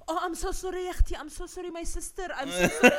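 high-pitched, frantic mock apology; hammed-up pleading, high and repetitive; panicked apology. Man caught insulting apologizes frantically.

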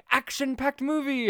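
high, loud hyped trailer line; trailer announcer. Retold or imitated. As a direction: shout it like the trailer. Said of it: "in my brain, like".

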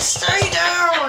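loud, high shouted command; retold shout. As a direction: call it out sharply, mimicking the moment.

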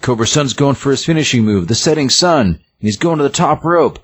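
high-pitched excited ringside call, retold; wrestling announcer. Announcer calls Cobra Sun's finishing move, mock excited play-by-play. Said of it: "the announcer's like".

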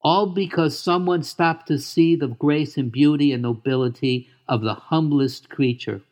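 put-on high, eager young pig voice; excited gentle pig, proud and tender; Wilbur voice. Wilbur greets Charlotte's daughters.

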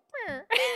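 high, loud imitated toppling sound; falling-tree noise. Acting out the tree falling, high noise. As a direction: mimic a little tree keeling over.

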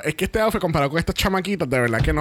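laughing mock quote. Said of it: "me hubiese encantado que yo hubiese dicho".

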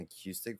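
"acoustic" with a "cue" in the middle; a-CUE-stic, said in passing; mispronounced "acoustic". Real, not acted. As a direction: say "acoustic" as uh-KYOO-stick. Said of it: "Not acoustic. What the fuck?".

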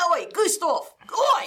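rising call ending in a high oi; yelling for Gustav. Pretend. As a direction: holler oi Gustav down the stairs. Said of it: "you're just yelling".

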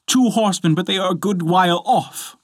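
high, lightly voiced woman; Sister Anne calling. A narrator's reading. Sister reporting distant horsemen, calling down.

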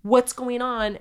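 high, solicitous quote; mock apologetic concern. Family apologises to the disturbed ghost, high mock concern. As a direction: pitch it up, fussing over the spirit.

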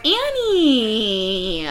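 calling out. Acted. Voicing a film character calling out.

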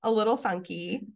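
stuffy allergy voice; congested, like inside a fishbowl. Real, not acted. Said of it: "I sound like I'm in a fishbowl".

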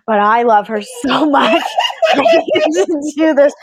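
rising, laughing imitation of overwrought devotion; mock-impassioned declaration. Friend imitating a husband defending his love, mock-impassioned. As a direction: build into a mock-desperate plea through laughter.

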